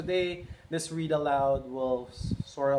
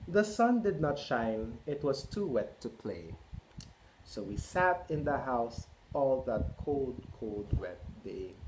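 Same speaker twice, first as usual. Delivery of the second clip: put-on slow, lilting read to children; storybook read-aloud. A narrator's reading. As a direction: read it like bedtime story time. Reading picture book to kids.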